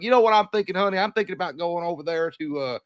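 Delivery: folksy Southern husband to his honey; lightly hammed-up Southern accent; put-on Southern accent. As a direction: play a Southerner making a dinner suggestion. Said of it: "once you get down in that Southern accent".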